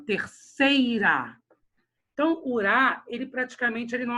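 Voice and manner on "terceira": "terceira" slowed, SEI held long; stress on SEI. Shown as a demonstration. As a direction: hold the middle of "terceira" and let "ra" fall away. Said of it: "Sei é paroxítona".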